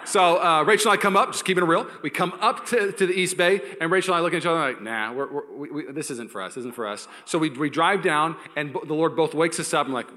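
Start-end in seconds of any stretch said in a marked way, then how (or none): 4.8-7.1 hushed aside. Retold or imitated. Quiet aside to wife.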